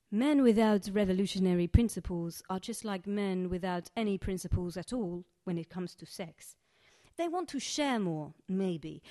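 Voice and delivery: lightly voiced Egyptian accent, poem read in character; a hint of an Egyptian accent from Sharifa telling her story. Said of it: "fully allowed to do this accent".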